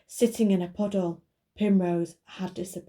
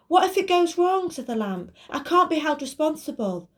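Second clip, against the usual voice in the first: nervous magic lamp voice; 9 semitones higher, 3 dB louder than usual. Acted.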